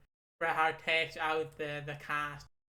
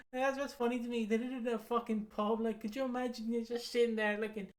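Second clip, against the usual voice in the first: higher voice, giggling between words; laughing through it; 7 semitones higher than usual. Real, not acted. Laughing about Vince's pub heart attack request, real giggles. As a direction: tell it while cracking up.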